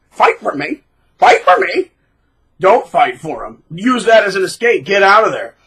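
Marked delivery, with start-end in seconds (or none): 0.1-1.9 rising, louder high chant; mock goading. Narcissist goading two friends to fight, mocked. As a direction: egg them on, climbing each time.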